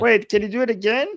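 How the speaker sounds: high, fast, excited asking; eager plea. Real, not acted. Begging her co-host for another Scottish impression, eager.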